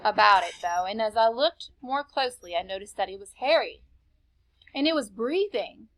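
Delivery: calm read-aloud to a class; story narration. A narrator's reading. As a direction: read the story steadily to the children. Teacher reads story to class.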